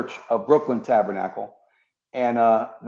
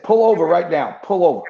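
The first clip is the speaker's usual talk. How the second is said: higher, louder command to pull over; urgent shout; 5 semitones higher, 5 dB louder than usual. Retold or imitated. Cop telling his partner to stop the car, urgent shout. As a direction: bark it like an order to stop the car.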